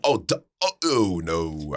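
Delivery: low, tentative stab at a cartoon duck; Donald. Friend asks for Donald Duck, spitty half-attempted impression. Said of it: "Or Donald, Donald".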